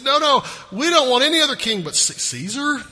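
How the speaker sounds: loud, high-pitched protest; emphatic mock outcry; defiant refusal. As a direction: act out a crowd refusing outright. Acting out the crowd's defiant refusal.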